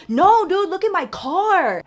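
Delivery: high, loud, stretched-out cry of dismay; retold alarmed friend. Friend shows her the damaged car, retold alarm. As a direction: imitate a friend urgently pointing out trouble.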